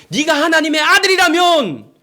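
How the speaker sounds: preacher voicing the devil's loud taunt. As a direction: bait him like the tempter daring a proof. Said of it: "마귀는 뭐라고 유혹했다고요?".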